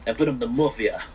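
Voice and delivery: lightly put-on Russian mobster accent; mock Russian accent. Gamer repeats the mafia claim to friends, mock Russian accent. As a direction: play a Russian mafioso, accent only lightly sketched. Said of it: "You sound Russian".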